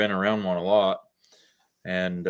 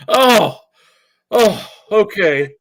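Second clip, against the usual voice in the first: surprised; 11 semitones higher, 8 dB louder, much slower than usual. Retold or imitated. Coworker reacts, voice raised.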